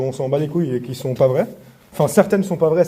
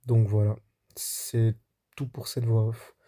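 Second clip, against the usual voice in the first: voice-over narration. Acted. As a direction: tell it like a documentary voice-over. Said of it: "on se retrouve pour la voix off".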